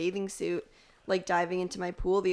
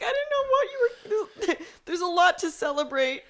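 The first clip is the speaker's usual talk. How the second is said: much higher, laughing congratulations; gushing fake cheer; 12 semitones higher, 5 dB louder than usual. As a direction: coo it with over-sweet delight. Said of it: "I was like".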